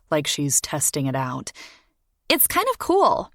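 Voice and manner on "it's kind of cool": put-on dreamy young girl. A narrator's reading. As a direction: gush like a smitten kid. Morgan voiced high.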